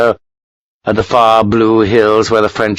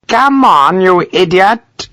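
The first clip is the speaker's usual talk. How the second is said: high, exasperated snap; angry impatience; 9 semitones higher, 3 dB louder, slower than usual. A narrator's reading. Colonel berating a hesitating doctor, exasperated. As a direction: berate him in a raised, drawn-out pitch.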